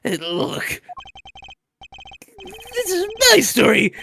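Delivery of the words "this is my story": indignant outburst. Acted. Sudden outburst.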